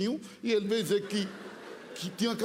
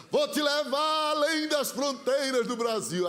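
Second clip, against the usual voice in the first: higher, slow, declaiming shout; prophetic proclamation; 4 semitones higher, slower than usual. Retold or imitated. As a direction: proclaim it to the whole church. (profeta proclamando alto e lento)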